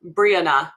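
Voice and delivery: Brianna run together as BREE-anna; Brianna with a weak, reduced middle vowel; Jamie's pronunciation. Retold or imitated. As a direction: stress the first syllable of Brianna. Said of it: "Jamie pronounces her name Brianna".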